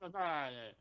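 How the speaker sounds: lilting fake Italian accent; mock Italian accent. Shown as a demonstration. Co-host asked to show his Italian, mock Italian accent. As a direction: improvise lightly faked Italian patter. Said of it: "Let me hear your Italian".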